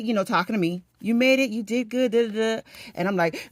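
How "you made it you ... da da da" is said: high, chirped praise; lightly voiced congratulations; congratulating passenger. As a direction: imitate a seatmate cheering someone on. Retold passengers congratulate her.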